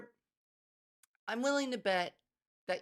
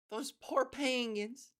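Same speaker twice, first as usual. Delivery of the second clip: slow, higher-pitched pitying "poor penguins"; mock pity; 5 semitones higher, slower than usual. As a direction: draw out "poor penguins" in sympathy.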